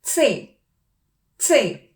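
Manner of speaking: സേ said slowly as tse; German letter name. Shown as a demonstration. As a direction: draw out സേ with a ts start. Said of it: "എങ്ങനെയാണ് സി പറയുന്നത്". (German സേ, ts ശബ്ദത്തോടെ)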